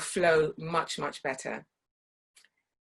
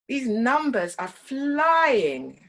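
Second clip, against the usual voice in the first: stretched vowels; 5 semitones higher, 5 dB louder, much slower than usual. Shown as a demonstration. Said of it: "play with the vowels".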